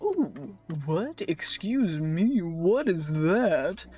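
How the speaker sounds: slow, nosy, prying little voice; a hint of a busybody asking what is that; curious brain voice. Streamer voicing his own brain as a nosy busybody. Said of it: "the weird funny voices that I randomly just go into".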